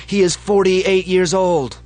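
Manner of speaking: high, loud, slow chanted shout; crowd yell. Acted. Crowd echoes the leaders, loud chanted roar. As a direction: roar it back as one crowd. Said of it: "the crowd yells".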